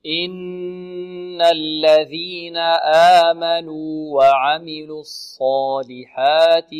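slow, drawn-out melodic recitation; Quran recitation. Shown as a demonstration. Teacher models the verse slowly for the student to repeat.

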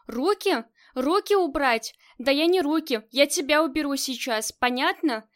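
loud furious threat; losing control. Acted. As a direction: shout it out of control. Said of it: "Коваль уже не контролировала себя".

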